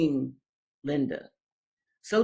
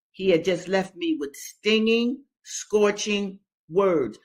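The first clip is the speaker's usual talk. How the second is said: rereading with emphasis. Shown as a demonstration. Teacher rereading the passage for students, with weight. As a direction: stress each harsh word as you reread. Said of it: "let me read this again".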